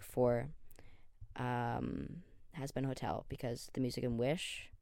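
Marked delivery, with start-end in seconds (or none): none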